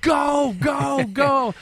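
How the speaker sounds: high, loud cheering yell; father and son cheering a touchdown, loud shout. Retold or imitated. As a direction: cheer him all the way to the end zone. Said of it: "me and my son ... we're like".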